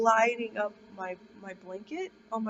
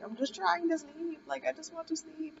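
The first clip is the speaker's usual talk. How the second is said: mad and fed up; 7 semitones higher than usual. Retold or imitated. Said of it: "I got really mad".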